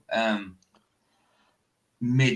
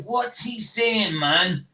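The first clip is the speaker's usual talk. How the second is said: baffled listener; 7 semitones higher, much slower than usual. Retold or imitated. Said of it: "It's like".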